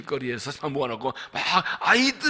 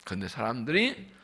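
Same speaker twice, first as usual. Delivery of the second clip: ordinary talk, nothing marked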